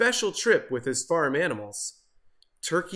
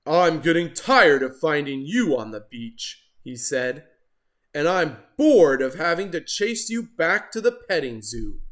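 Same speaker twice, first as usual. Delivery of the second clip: louder, exasperated telling-off; fed-up lifeguard; 5 dB louder than usual. Acted. Lifeguard catching Turkey again, exasperated. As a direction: scold with worn-out patience.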